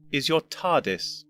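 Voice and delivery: slow, tired, patient explaining; weary patience. Acted. Old doctor explaining to his future self with slow weary patience. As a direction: spell it out like to a slow pupil. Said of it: "with an air of weary patience".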